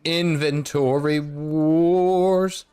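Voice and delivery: movie trailer voice. Pretend. Dramatic game announcement.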